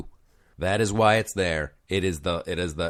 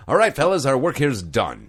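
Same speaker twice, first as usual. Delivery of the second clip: high, loud mock gang boss; hammed-up boss signing off; 4 semitones higher, 3 dB louder than usual.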